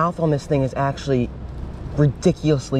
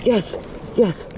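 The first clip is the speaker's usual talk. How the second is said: real triumph; 8 semitones higher, slower than usual. Real, not acted. Angler landing the fish, high triumphant yes. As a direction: burst of relief and joy.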